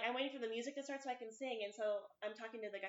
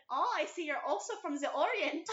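mock German accent; 4 semitones higher, 5 dB louder than usual. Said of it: "in a German accent".

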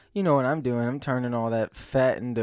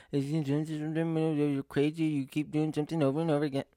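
lightly voiced sage quoting himself; mock Einstein quote. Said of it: "Is it Einstein who said".

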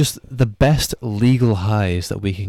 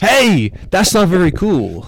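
mock character voice; 9 semitones higher, 5 dB louder, slower than usual.

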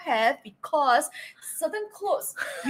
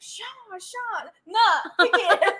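playful offering; 7 semitones higher, 3 dB louder, much slower than usual. Pretend. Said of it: "Can you imagine, like".

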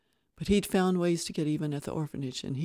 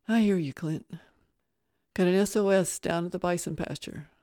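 raised voice into the two-way; radio reply; 3 semitones higher, 5 dB louder than usual. Acted. Rancher answering his foreman on the radio, raised. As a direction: answer loudly over the radio.

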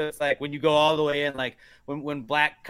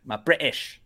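put-on British accent; slower than usual. Shown as a demonstration. Working on my British, British accent. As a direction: say it in practised British. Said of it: "trying to work on my British".

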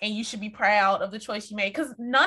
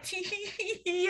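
soft, high, snide giggle; mocking laugh; 7 semitones higher, 8 dB quieter than usual. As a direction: titter at them with contempt. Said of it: "Mirovich does this mocking laugh".

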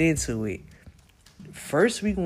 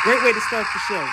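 1 excited praise; 5 semitones higher, 4 dB louder, faster than usual. Real, not acted. Hyped praise of episode.

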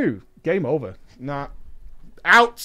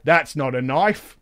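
slow mock-Australian catchphrase; phony Australian accent; 4 semitones lower than usual. Gamer joking over a dropped dagger, phony Australian accent. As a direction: draw it out in put-on Australian. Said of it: "my phony Australian accent".

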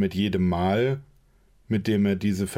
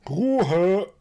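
much higher, louder bark of a command; furious shout; 11 semitones higher, 4 dB louder than usual. Acted. Quinn shouts down the bickering table, furiously. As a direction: shut everyone up at once.

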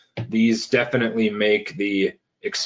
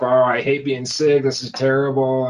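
mock complaining; 4 semitones higher than usual. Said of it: "are you busy telling yourself".

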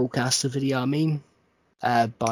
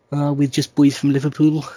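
lightly put-on Liverpool accent, a bit louder; mock Liverpool accent; 5 dB louder than usual. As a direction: tease a famous band with a hammy Liverpool accent. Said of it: "I reckon they all put on their accents".

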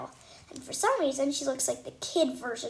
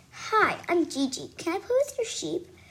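put-on super scratchy little girl; 5 semitones higher than usual. A narrator's reading. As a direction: scrape the words out like a scratchy little kid. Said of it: "with a super scratchy voice".

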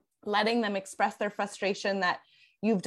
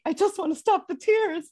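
much higher, louder pleading inner voice; higher, louder inner voice begging the tears to stop; anxious gut voice; 10 semitones higher, 4 dB louder than usual. Retold or imitated. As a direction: play the parent's urge to stop the tears, a little desperate. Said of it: "your gut is like".

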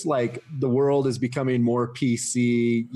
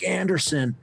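mock heckler jeer; 6 semitones higher, slower than usual. Heckling fan from the stands.

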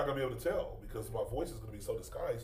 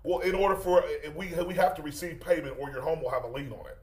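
prank caller voice; 3 semitones higher, 4 dB louder than usual. Acted. Prank caller threatens lien.

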